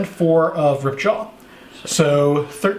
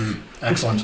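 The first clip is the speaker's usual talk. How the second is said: villainous; 7 semitones lower, 5 dB quieter than usual. Pretend. Villainous pleasure.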